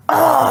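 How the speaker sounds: long drawn-out retold "oh"; mock groan of dismay; exasperated groan. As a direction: imitate an upset friend's groan. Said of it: "she was so upset".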